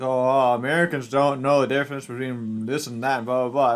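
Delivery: mildly mocking imitation of complainers; sing-song mock grumbling, lightly done; making fun. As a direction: lightly parody someone's tiresome complaint. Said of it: "Europeans make fun of us".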